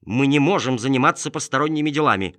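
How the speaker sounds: loud, sharp reproach; annoyed. Acted. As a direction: scold the helper firmly. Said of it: "рассерженный неуместным вмешательством".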